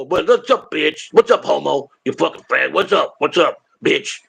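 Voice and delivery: lightly mimicked foul-mouthed phone greeting; imitating friend's greeting. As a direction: do a buddy's cussing hello, stretching the last line slow. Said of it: "that's how he talks to me".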